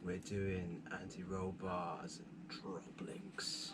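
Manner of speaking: slow hushed whisper. Acted. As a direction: whisper it like a secret. Whispered joke intro.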